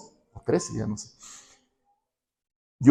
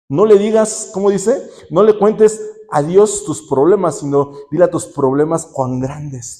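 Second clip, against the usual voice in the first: preaching emphasis; 2 semitones higher, 4 dB louder than usual. Real, not acted. Preacher punches the key saying.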